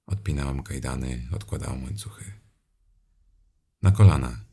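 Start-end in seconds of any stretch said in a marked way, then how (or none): 3.8-4.5 loud sharp command; snapped order. Acted. Domina rzuca głośny rozkaz do uległego. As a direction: throw the order at him. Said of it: "rzuciłam".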